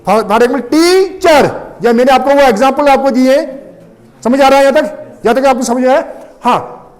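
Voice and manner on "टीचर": टीचर in two beats, TEE high, char falling; टीचर said as TEE-char, first beat raised; split into syllables. Shown as a demonstration. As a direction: stretch the first syllable of टीचर, then drop. Demonstrates a two-syllable example word.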